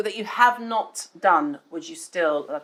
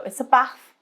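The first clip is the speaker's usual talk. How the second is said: high, loud Scouse impression; exaggerated Liverpool twang; Scouse accent; 6 semitones higher, 5 dB louder than usual. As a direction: mimic a Scouser with a short-vowelled "bath". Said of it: "the Scousers go".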